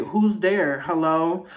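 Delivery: a hint of a movie kid, questioning; movie kid calling. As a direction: imitate a child calling into the dark. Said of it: "Like the little kids do in the movies".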